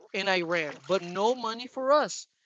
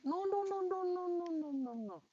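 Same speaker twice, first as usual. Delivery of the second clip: urgent warning; 10 semitones higher, 10 dB quieter than usual. Real, not acted. Warning about something hot.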